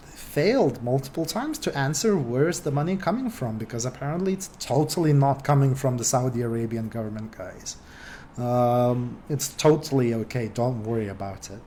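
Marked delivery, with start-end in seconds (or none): 3.6-11.6 sarcastic. Real, not acted. Presenter mocking the denial of Saudi money, sarcastic. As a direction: feign innocence with dry sarcasm. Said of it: "the sarcasm in my voice should tell you a bunch".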